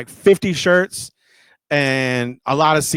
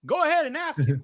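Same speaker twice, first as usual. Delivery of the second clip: high, softer prompting voice; manager on the phone; 13 semitones higher, 4 dB quieter than usual. Retold or imitated. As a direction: nudge him in a raised, hushed pitch. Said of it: "I hear this".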